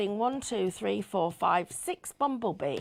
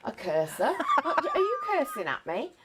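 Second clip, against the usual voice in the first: laughing caller; 7 semitones higher, 4 dB louder than usual. Retold or imitated. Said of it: "retold helpline call, caller".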